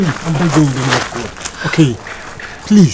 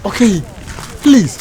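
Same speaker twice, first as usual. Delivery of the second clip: desperate pleading; 6 semitones higher, slower than usual. Acted. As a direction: plead with her as she walks away. Boyfriend begging girlfriend not to leave.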